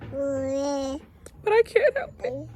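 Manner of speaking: very slow, holding back tears; mother fighting off tears; tearful. Real, not acted. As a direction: drag it out, choked up. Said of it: "I don't wanna get emotional".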